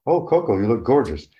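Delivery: high, bright praise for Coco; sweet sing-song compliment to a gorilla; cooing caretaker. Retold or imitated. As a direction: coo it like a proud caretaker.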